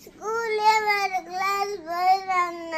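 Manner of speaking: slow words through sobs; tearful, sobbing out the reason. Real, not acted. Child sobbing to mother about friends leaving, tearful. Child crying over school ending.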